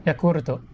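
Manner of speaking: Yakurto as ya-KOO-ru-to; Japanese pronunciation. Shown as a demonstration. Telling how katakana is read in Japan, Japanese pronunciation. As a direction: sound out each syllable of Yakurto. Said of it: "In Japan".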